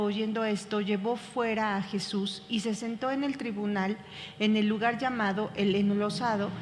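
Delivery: steady, measured Bible reading; calm, even scripture reading voice. Acted. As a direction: read the passage aloud to the class. Reads the Passion passage aloud.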